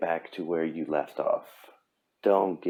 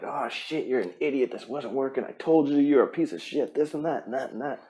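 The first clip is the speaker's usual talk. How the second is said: higher, mock-harsh inner critic; talking down to yourself; 4 semitones higher, 3 dB quieter than usual. Panicking person cursing himself, mock-harsh. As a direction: scold yourself in your head. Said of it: "you're talking down to yourself like".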